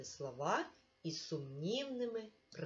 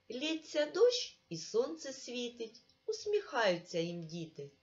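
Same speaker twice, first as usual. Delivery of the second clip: put-on lilting, sing-song poem reading for children; poem recitation; 3 semitones higher than usual.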